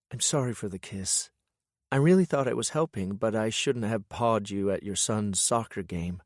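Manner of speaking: a hint of a sheepish woman; lightly voiced woman. Lillian apologizing, embarrassed.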